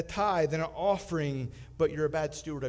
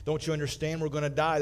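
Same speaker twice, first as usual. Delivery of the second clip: frantic; 6 dB louder, faster than usual. Acted. Panicking castaway.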